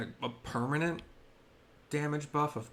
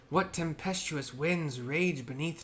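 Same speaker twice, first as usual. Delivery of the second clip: raised, louder, solemn tribal birdman elder; Vanu elder voice; 4 semitones higher, 3 dB louder than usual. Acted. Bird-tribe elder greeting the Netherling travellers, raised and solemn. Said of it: "doing that voice for them".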